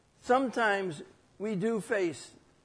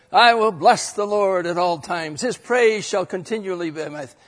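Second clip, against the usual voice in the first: louder, upbeat cheerleader reading; loud triumphant recital; rah-rah praise; 6 dB louder than usual. Shown as a demonstration. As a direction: proclaim it like a pep rally cheer. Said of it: "yea, rah, rah".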